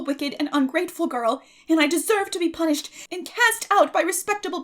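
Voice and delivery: put-on a dramatic orphan girl begging for pardon; young Anne pleading. A narrator's reading.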